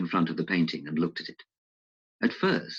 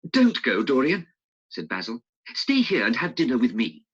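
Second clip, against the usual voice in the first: lightly voiced pleading painter, a little louder; a hint of urgent pleading; Basil; 6 semitones higher, 4 dB louder than usual. Basil asking Dorian to stay, in a lightly pleading voice.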